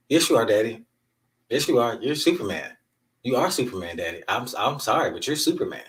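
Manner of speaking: a hint of a small daughter's voice; imitating his daughter. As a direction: imitate a child earnestly insisting to Daddy. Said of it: "you know what my daughter said".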